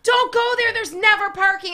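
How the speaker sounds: irritated warning. Retold or imitated. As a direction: re-enact yourself warning the driver in exasperation. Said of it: "I get so irritated".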